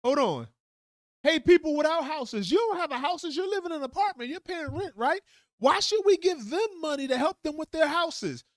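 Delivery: a hammed-up senator working the crowd; mock persuasive politician. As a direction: turn renters against homeowners like a slick politician. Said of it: "And they're gonna be like".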